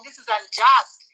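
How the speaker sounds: slow, loud, mock protest in court; indignant objection. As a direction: plant each word like an outraged advocate.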